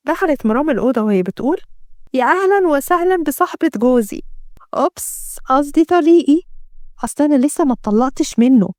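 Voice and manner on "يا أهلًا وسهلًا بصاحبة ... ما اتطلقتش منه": higher-pitched, sly taunting villainess; lightly feigned slip, meant to needle; mocking welcome. Villainess greets her captive. (بسخرية وشماتة)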